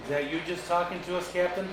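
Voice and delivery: calling out. Real, not acted. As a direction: call out high and eager. Calling out to a spirit.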